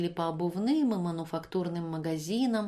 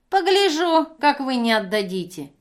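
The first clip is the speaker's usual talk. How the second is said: much higher, much louder sneering threat; threatening; 6 semitones higher, 8 dB louder than usual. Acted. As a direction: dare her. Женщина угрожает. (с угрозой, визгливо)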